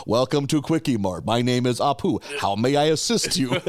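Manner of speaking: lightly voiced robotic store greeting; a hint of a recorded phone menu; automated phone voice. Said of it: "it's like some kind of automated phone voice".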